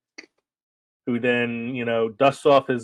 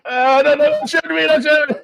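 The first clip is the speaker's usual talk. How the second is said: mock panicked fake American accent, much higher and louder; Hans Gruber's fake American accent; 7 dB louder than usual. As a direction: squeal a hammed-up American plea. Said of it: "I love his American accent".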